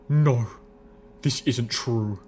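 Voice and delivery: firm, deliberate denial with a pause after no; insist, leaving no room for argument; adamant. A narrator's reading. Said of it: "insisted adamantly".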